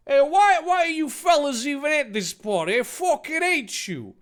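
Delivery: high, heated character voice; mad. Acted. Dave asking his enemies why they came, mad. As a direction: snap at them in a high mock rage. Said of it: "Dave got mad".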